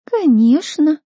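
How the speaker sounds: high, loud mocking rise; spiteful sing-song “of course”; snide agreement. A narrator's reading. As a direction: egg her on with spite. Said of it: "подливала масло в огонь Хлоя".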